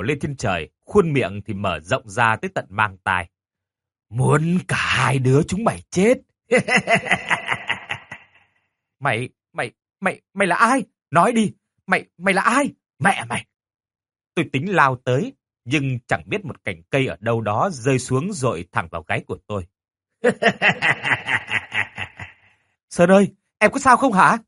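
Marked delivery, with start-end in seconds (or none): 4.1-6.1 eerie menacing doll; creepy doll voice. Acted. 6.5-8.1 high eerie doll cackle; evil cackle. Acted. Doll laughs after threat. 9.0-13.5 panicked shouting. Acted. Panicked boy confronts doll. 20.2-22.2 evil cackle. Acted. Doll laughs. 22.9-24.4 worried shout. Acted. Teacher calls to hurt boy.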